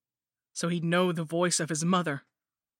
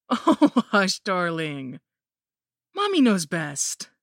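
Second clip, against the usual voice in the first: gushing mother-in-law; 2 semitones higher, 7 dB louder, much slower than usual. Acted. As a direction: coo over the baby like a sinister granny. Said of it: "She cackled".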